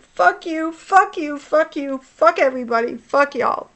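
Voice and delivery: high-pitched chant of curses; retold anger. Woman recalling cursing everyone after the scare, retold anger. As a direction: fire off each curse as its own jab. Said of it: "I was so fucking angry".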